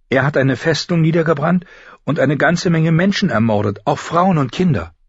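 put-on high girlish voice, earnest; older sister explaining. Older sister tells younger of the burned fortress, earnestly.

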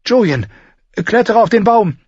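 high, loud command; urgent shout. Acted. Mira yells at Bran to call the wolf back, high and loud. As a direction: demand it at full voice.

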